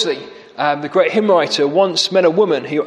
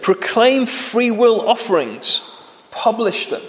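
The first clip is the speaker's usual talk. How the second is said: mocking; 3 semitones higher than usual. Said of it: "he really mocks them".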